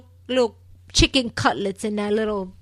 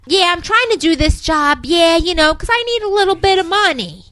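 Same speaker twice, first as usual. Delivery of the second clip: high, loud, hammed-up New York accent; mock a badly faked Brooklyn accent; exaggerated put-on New York accent, pitched up; fake Brooklyn accent; 8 semitones higher, 7 dB louder than usual. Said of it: "Babe's really fake Brooklyn accent or New York accent".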